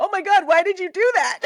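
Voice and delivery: mock exasperation, cracking up; laughing disbelief. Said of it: "And you're thinking".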